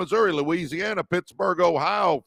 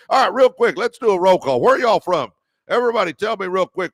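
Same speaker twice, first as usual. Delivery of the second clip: calling out roll call; 5 semitones higher, 5 dB louder, faster than usual. Real, not acted. Host calls for a roll call.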